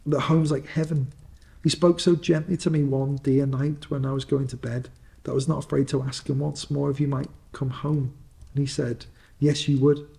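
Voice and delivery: a little sister overflowing with joy; gleeful little girl. Acted. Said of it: "brimful of glee".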